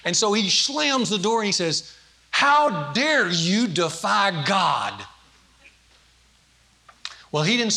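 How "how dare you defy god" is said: slow, drawn-out mock thundering of a self-styled prophet; hammed-up righteous fury, every word dragged out; mock divine wrath. Husband slamming the door on his wife, hammed-up slow fury.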